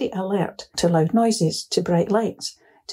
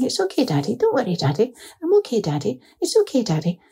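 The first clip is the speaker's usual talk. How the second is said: put-on higher, gentle small-boy voice, lightly done; comforting little boy; 5 semitones higher than usual. Little boy patting his dad's back, comforting him in a higher voice. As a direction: soothe your dad like a small child.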